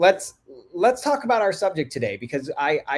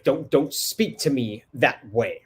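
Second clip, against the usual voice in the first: scolding parent; 3 semitones lower, slower than usual. Retold or imitated. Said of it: "we hear all the time, like".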